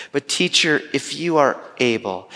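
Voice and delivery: a slightly lifted, hopeful plea; father pleading with the teacher, a touch hopeful; flicker of hope. Retold or imitated. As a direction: let a small spark of hope in. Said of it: "just a little flicker of hope".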